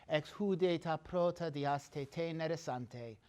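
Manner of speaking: rhythmic chanted Homeric recitation; recited Greek verse. Shown as a demonstration. Lecturer reciting the Iliad to his class in rhythmic verse. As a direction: recite the Iliad, letting the meter carry it. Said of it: "I'm gonna read in Greek".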